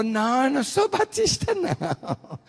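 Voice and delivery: very high imitation of a protesting woman; backing-off protest. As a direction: squeal a denial in mock alarm. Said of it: "Aí ela recuou". (imitando mulher recuando, voz bem aguda)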